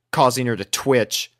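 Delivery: ordinary delivery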